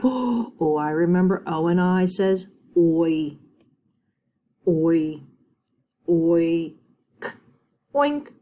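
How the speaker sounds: sounding out "oi, oik, oink" step by step; mock thinking aloud. Shown as a demonstration. Teacher voices a student's thinking, sounding out. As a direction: build the word sound by sound. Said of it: "I hope your brain is thinking".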